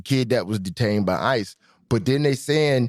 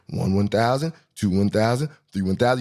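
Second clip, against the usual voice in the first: counting off seconds; 2 semitones lower than usual. Shown as a demonstration. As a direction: count each second out deliberately. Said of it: "You see how I get there?".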